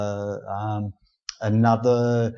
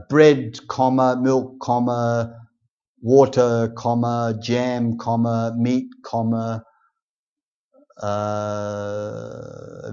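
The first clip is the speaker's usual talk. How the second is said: reading the commas aloud; slower than usual. Shown as a demonstration. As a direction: say each comma as a word between items. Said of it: "I would write a list".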